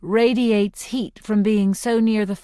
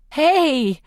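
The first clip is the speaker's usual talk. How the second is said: a quick, higher, laughing yelp of protest; playful protest; 7 semitones higher than usual. A narrator's reading. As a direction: squeal a mock objection while being spun. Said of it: "I protest".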